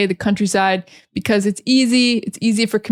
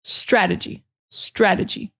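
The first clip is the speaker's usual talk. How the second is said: "Strategy" said as STRA-duh-jee; stress on first syllable; 4 dB quieter than usual. Shown as a demonstration. Teacher showing the emphasis, first-syllable stress. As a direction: stress the start of "Strategy", let the rest fall. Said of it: "emphasis really is on the first syllable".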